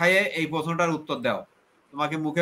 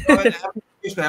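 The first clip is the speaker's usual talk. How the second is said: louder, higher, holding the floor; firm cut-in; 3 semitones higher, 5 dB louder, slower than usual. Real, not acted. Host stops the interrupting guest, firm and louder. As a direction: stop the interruption.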